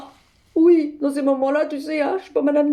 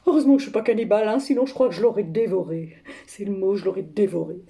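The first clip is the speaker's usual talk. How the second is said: dark menace; 6 semitones lower, faster than usual. Acted. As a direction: let the threat sink to a low confession. Confie son envie de la dévorer. (menace sourde, voix grave)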